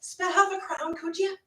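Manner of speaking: high, soft begging Cockney voice; a hammed-up street beggar asking for coins; mock old London beggar, pitched high.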